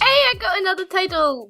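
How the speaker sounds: excited. Real, not acted. Excited reaction to new title.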